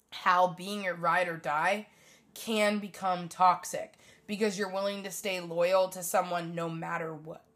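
talking with the hiccups; speaking between hiccups. Real, not acted. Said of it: "Sorry, I have the hiccups".

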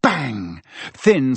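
usual speaking voice

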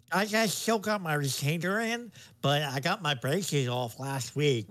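lightly voiced nerd with a retainer; nerdy teen voice. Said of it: "And that's a great voice".

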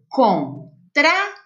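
"contrário" split slowly into its syllables; separado em sílabas. Shown as a demonstration. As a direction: pause after each syllable of "contrário". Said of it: "Quantas sílabas tem?". ("contrário" devagar, pausando entre as sílabas)

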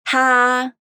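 breathy puffed t; Tá with a puff of air, Mandarin tā; aspirated tā. Shown as a demonstration. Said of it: "De novo".

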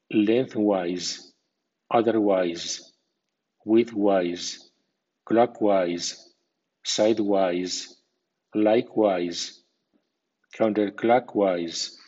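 lengthwise with wise given a secondary stress; medium stress on wise. Shown as a demonstration. Teacher lists wise words for learners, medium stress on wise. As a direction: say clockwise with wise clear, not reduced. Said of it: "con acento medio. Por ejemplo".

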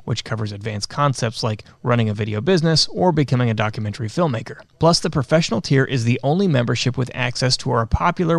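upbeat commercial read. Acted. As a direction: sell it like a radio spot. Reads an ad.

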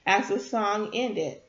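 gentle read-aloud storytelling; story narration. A narrator's reading. Live storyteller reading a chapter to her listeners, gentle narration.

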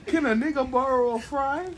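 teasing white-teacher voice, rising in pitch; mock a white teacher trying out slang; white teacher impression. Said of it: "the white teacher from the Boondocks".

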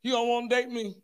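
whiny mock sobbing complaint; fake crying voice. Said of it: "they get that fake crying voice".

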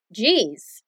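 dismayed jeez, falling; negative surprise. Shown as a demonstration.

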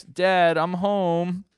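high, loud sing-out to someone inside; calling out. Acted. Boy arriving home to his dad, calling out.

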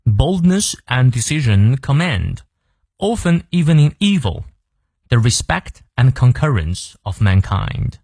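slow, measured English recitation; deliberate teacher's read-aloud with clear pauses; model reading. Shown as a demonstration. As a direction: read it out slowly for learners, phrase by phrase. Repeat model reading for learners.

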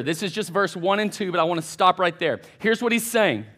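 ordinary delivery

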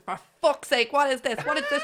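mock disbelief, climbing high at the end; sister's amazed outburst. Retelling the sister seeing her bass, squealing in disbelief. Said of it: "she was like".

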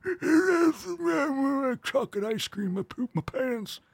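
put-on very high, slow, squeaky old-man parody; mock creepy Joe. Mocking Biden on the show in a high squeaky voice. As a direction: whimper it like a senile old man. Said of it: "creepy Joe's over there".

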